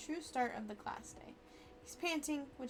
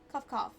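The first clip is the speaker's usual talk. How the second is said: cough, cough, said a bit louder; louder spoken cough; 4 dB louder than usual. Acted. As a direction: say cough, cough, with more force. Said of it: "spice stuck in my throat".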